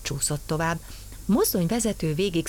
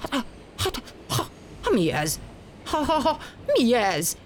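startled shout; 7 semitones higher than usual. Acted. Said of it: "kiabált a mozdonyvezető".

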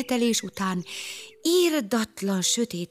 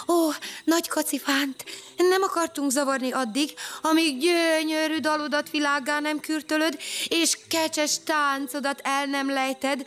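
higher, fawning praise; bow and scrape with words; humble flattery; 7 semitones higher than usual. Acted. Bumba flattering the elephant, humbly. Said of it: "alázatos hajbókolással".

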